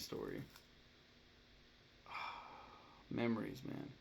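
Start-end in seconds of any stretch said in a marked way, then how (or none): 2.1-2.6 soft, breathy sigh; wistful sigh. Real, not acted. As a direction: let out a sigh before reminiscing. Recalling a beloved childhood film.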